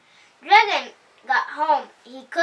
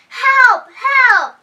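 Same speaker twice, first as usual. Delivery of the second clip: much higher, louder frightened cry; hippo crying help; 12 semitones higher, 12 dB louder than usual. A narrator's reading. Hippo frightened by the monster, high panicked cry for help. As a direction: yelp it out in panic. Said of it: "cried the hippo".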